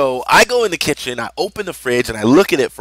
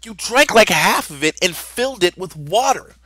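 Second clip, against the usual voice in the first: indignant scolding; 6 semitones higher than usual. Retold or imitated. Dad scolds brother for watering drink.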